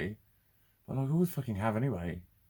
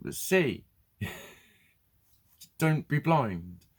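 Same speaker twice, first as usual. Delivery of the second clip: mock dismissive friend; 5 semitones higher, 4 dB louder, much slower than usual. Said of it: "And you say".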